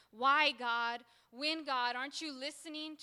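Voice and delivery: urgent, pleading questions; wrestling with God. Acted. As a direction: press God for an answer. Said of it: "He goes from wrestling".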